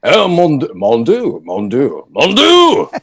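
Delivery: hammed-up French cry, escalating to a high, loud peak; Polnareff. Shown as a demonstration. Actor demos French Polnareff for fans, hammed-up French exclaiming. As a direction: exclaim in French accent, building to a high shout. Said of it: "if he was French, he would".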